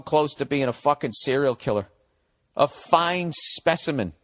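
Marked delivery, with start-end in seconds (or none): 2.5-4.1 slow, mocking echo of the phrase; mocking repeat. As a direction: stretch out FINE SPECIMEN, mocking the writer. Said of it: "You sound like one of those".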